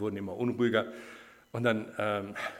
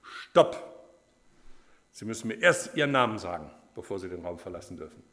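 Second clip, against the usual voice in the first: sudden loud command; professor's shout; 2 semitones lower, 6 dB louder than usual. Acted. Professor stops a student leaving the exam room, shouting. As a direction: shout to halt someone, then demand loudly. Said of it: "dann hat der Professor geschrien".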